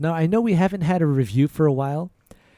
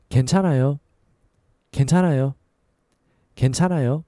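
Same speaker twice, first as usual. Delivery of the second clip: quicker natural pace; a little faster; much faster than usual. Shown as a demonstration. Teacher repeating at natural speed. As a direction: say it at everyday speed. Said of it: "And a little faster".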